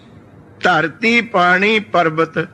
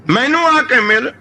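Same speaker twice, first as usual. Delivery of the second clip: ਮੈਨੂੰ ਆ ਕੇ ਮਿਲ raised higher, ਆ lifted and stretched; pleading call to God; 5 semitones higher than usual. Retold or imitated. Fakir begging God to visit him, raised pleading call. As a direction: plead ਆ ਕੇ ਮਿਲ upward like a lone prayer. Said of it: "ਬਸ ਇਹੀ ਕਹੀ ਗਿਆ".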